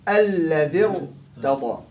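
"الذي ارتضى" drawn out slowly, every syllable held; slow recitation. Shown as a demonstration. Teacher slowly recites the verse to explain the kasra. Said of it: "برجع للكسرة".

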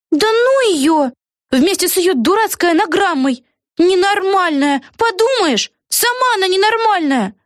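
high, slow, scornful outburst; high-pitched indignant exclamation; exclaiming girl. A narrator's reading. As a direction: toss it off as an offended young witch. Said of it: "воскликнула Вега".

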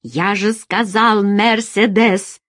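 slow, emphatic bark. Acted. Alex insists to Feride on the Mercedes, barking. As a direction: stretch out the car's name in anger. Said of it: "рявкнул Алекс".

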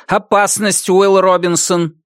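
high metallic robot alarm voice; rusty robot. Acted. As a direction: sound the alarm like a tinny robot. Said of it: "Металлический голос робота звучал".

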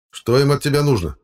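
stern boss demanding. A narrator's reading. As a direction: insist on an answer. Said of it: "требовательно спросил он".

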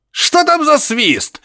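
high, slow yell through a speaker; shouting from the receiver. A narrator's reading. Professor shouting from the receiver, high and drawn out. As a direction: cry out over a crackling radio. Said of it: "снова закричал из приёмника Барсуков".

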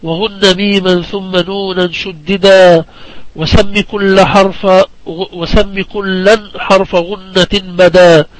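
slow, measured poem recitation; unhurried scholarly verse delivery; didactic verse recitation. Acted. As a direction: recite the rhymed verse with drawn-out line endings.

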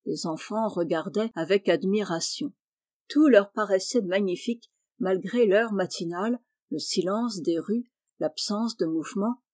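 ordinary delivery, nothing marked

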